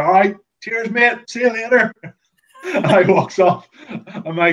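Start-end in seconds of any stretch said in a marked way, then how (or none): 0.0-1.9 high, breezy farewell; light high-pitched see you later; breezy goodbye. Retold or imitated. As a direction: toss off a casual cheers. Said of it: "I was like".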